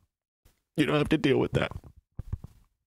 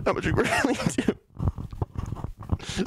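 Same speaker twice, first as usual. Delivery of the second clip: laughing mock lament; 6 semitones higher, much slower than usual. Mock sad, laughing through.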